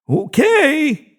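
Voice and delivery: keen to draw; enthusiastic. A narrator's reading. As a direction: agree with relish. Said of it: "Carl replied enthusiastically".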